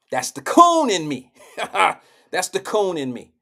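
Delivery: amused, with a burst of laughter; laughing. Real, not acted. Joking to viewers about himself, laughing. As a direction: laugh between the two lines. Laughing at his own joke.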